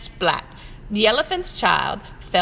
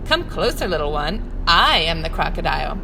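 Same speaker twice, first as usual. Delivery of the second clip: luring crocodile; 4 semitones lower, 4 dB louder than usual. Acted.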